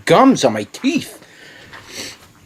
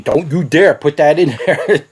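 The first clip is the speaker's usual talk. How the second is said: laughing stomach voice. Retold or imitated. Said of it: "my body's way of saying".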